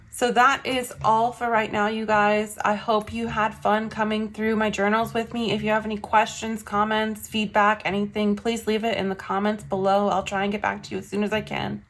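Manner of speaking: breathless, short on air; out of breath, puffing slightly. Real, not acted. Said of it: "Wow, I am out of breath".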